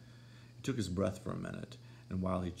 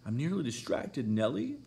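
higher, louder cry of distress; distraught exclamation; 7 semitones higher, 3 dB louder than usual. A narrator's reading. Catherine to Nellie after the fight, distraught cry. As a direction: fling it out, nearly frantic. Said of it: "she exclaimed".

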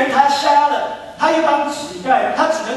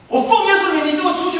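commanding rebuke; 4 semitones higher than usual. Retold or imitated. Retells casting out his own idol.

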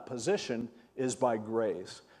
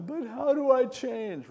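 high, plaintive mock husband; imitated pleading; 12 semitones higher than usual. Counseled husband asks pastor for help, imitated pleading.

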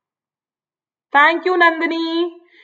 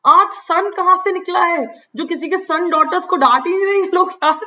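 higher, wry mock-amazed teacher voice; lightly played surprised schoolmaster; imitating M Hamel; 4 semitones higher than usual. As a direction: tease like a stunned teacher asking where the sun rose. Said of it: "उसने कहा".

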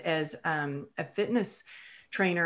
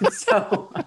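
breathy real laugh; light laughter after the joke; 4 semitones higher than usual. Real, not acted.

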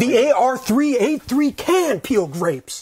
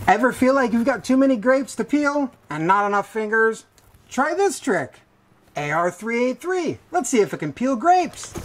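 infomercial voice. Acted. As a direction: sell it like a late-night ad. Infomercial pitch read.

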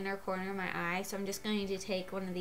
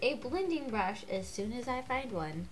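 stuffy voice from a cold; congested. Real, not acted. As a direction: talk through a blocked-up nose. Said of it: "I sound super congested".

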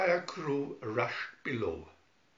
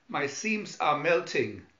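lamenting; 2 semitones higher, 4 dB louder than usual. Acted. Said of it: "lamented the robot".

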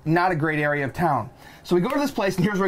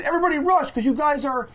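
retold TSA shout; 9 semitones higher than usual. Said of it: "The guy at the front of the T S A line said".

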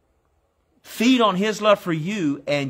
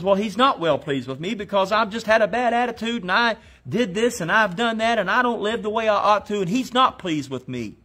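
higher, whining complaint of a doubter; whiny doubter; 5 semitones higher than usual. Retold or imitated. Doubter complains God is not pleased, in a higher whine. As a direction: plead like a guilty churchgoer. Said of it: "Somebody says".

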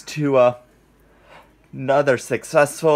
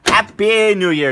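new year cheer; 9 semitones higher, 4 dB louder than usual. Real, not acted. Cheer after midnight.

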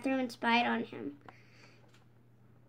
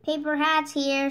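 shouting to sell; 4 dB louder than usual. Acted. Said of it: "shouted SpongeBob".

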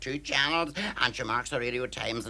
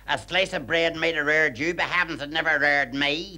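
cheeky retort; 3 semitones higher, 4 dB louder than usual. Acted. Cleaner insults employer.

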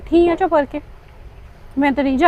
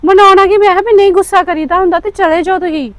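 louder, higher, heated self-defence; heated protest; 3 semitones higher, 4 dB louder than usual. Acted. Daughter defending herself to her brother, loud and heated. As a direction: insist loudly that you tried.

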